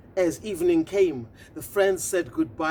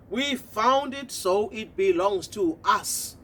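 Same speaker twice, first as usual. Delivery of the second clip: smug toads. Acted. Toads taunting.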